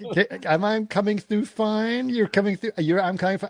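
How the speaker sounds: smooth it over like a nervous host; overly polite. Retold or imitated. President on the phone to the Russian premier, anxiously polite. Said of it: "trying to be as polite as he possibly can".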